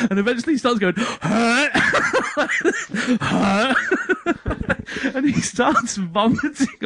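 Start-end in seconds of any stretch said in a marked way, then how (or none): 1.0-1.7 high mock gag noise; imitated retching. Sal starting to be sick, comic retching. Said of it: "Sal's gonna start being sick". 3.2-3.8 short mock heave; imitated retching. Sal starting to be sick, comic retching. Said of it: "Sal's gonna start being sick".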